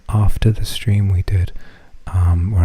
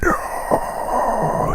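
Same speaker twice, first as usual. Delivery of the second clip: put-on much higher, breathy kid's cry; child scream; 3 dB quieter than usual. Son in the TikTok refusing, high whispered scream. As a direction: squeal it like a panicked boy. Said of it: "And he screams".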